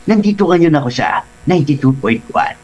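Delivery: lightly voiced veteran comedian impression; hint of a comic actor's voice; Dolphy. Shown as a demonstration. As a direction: subtle celebrity impersonation on air. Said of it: "Si, si Dolphy".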